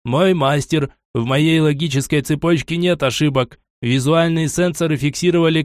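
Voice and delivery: almost human, sorrowful android; a machine with a touch of sadness; sad robot voice. Acted. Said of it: "почти человеческий грустный голос робота".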